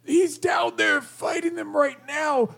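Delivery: strained goblin voice. Acted. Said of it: "that accent and the drained voice".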